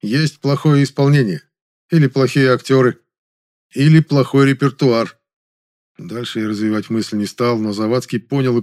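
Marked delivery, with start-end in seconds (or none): 0.0-5.2 loud, emphatic pompous retort; pointedly grandiose reply. A narrator's reading. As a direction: lay it on thick. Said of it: "подчёркнуто пафосно ответил я".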